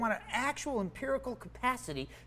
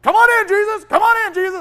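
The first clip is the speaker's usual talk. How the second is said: loud, high, thrilled "come on in"; much louder and higher, ecstatic welcome; excited invitation; 12 semitones higher, 14 dB louder than usual. Retold or imitated. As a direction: call out to Jesus with a burst of joy. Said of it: "I've been with that for three days going".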